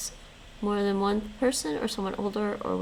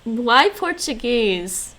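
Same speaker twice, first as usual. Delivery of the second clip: surprised; 2 semitones higher, 6 dB louder, much slower than usual. Real, not acted.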